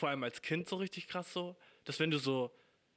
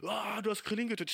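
higher, hammed-up furious cry; playful outraged yell; mock anime rage; 5 semitones higher than usual. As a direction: cry out like an enraged anime hero. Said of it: "ich bin so wütend".

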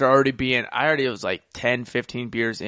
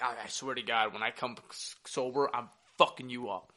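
mock drunk mumbled threat; 3 semitones lower, 11 dB quieter than usual. Drunk muttered threat retold.

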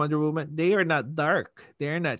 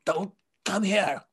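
emo Superman; 3 semitones higher than usual. Retold or imitated. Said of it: "It's like Superman was emo".

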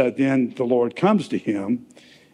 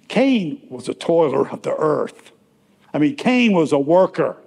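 "Cain" punched higher and louder; added emphasis; 3 semitones higher, 3 dB louder than usual. Shown as a demonstration. Preacher contrasting Cain with Abel, strong emphasis on "Cain". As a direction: hit "Cain" hard and high, then fall through "worker". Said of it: "Now, this is my, the emphasis".

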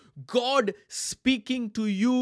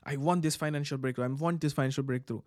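mock needy believer; 5 semitones lower, 5 dB quieter, faster than usual. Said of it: "some of you are sitting and saying".

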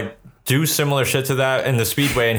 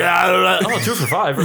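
put-on shouting old man voice; 4 semitones higher, slower than usual. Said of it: "He's just like".

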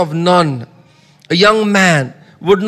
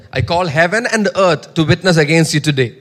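firm, ringing proclamation; bold declaration; 3 semitones lower than usual. Shown as a demonstration. Preacher repeating the verse as a model of bold speech. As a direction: declare it with full conviction. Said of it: "You must speak like that".

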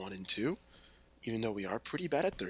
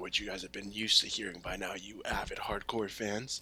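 sarcastic whisper; 3 dB quieter than usual. Pretend. Teasing the few listeners.

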